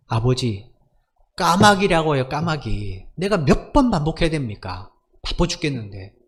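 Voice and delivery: mock-angry son, pitch jumping up in bursts; retold anger. Son fed up with father's repeated question, mildly angry. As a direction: act out a son losing patience. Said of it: "아들이 이제 화를 냅니다".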